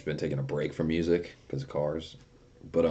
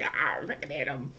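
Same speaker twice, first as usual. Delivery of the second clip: retold glee; 9 semitones higher than usual. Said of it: "I'd be like".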